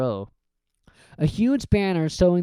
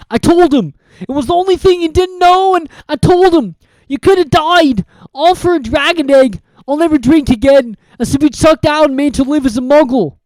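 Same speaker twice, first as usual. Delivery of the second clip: louder, higher distraught giant; sobbing; 11 semitones higher, 10 dB louder than usual. Acted. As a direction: pour out guilt in tears. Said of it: "sobbed Hagrid".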